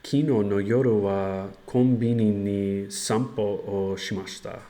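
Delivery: slow, careful learner Japanese; loud, halting Japanese practice; japanese learner accent. Shown as a demonstration. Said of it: "Let's try that".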